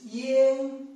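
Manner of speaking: "yen" with an open e, not an a; pronounced yen. Shown as a demonstration. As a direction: say "yen", rhyming with ten. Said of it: "not yang".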